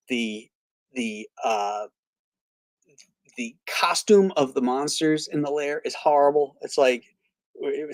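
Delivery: normal talking voice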